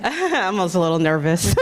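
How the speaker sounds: nervous laugh on the edge of crying; tearful, shaky little laugh; holding back tears. Real, not acted. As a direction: laugh through real tears, trying to hold it together. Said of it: "I'm already trying not to cry".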